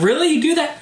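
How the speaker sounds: high-pitched disbelieving squeal; freaking out. Retold or imitated. Told he can buy the games, high disbelieving squeal. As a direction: leap way up in pitch, barely believing it. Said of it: "like, freaking out".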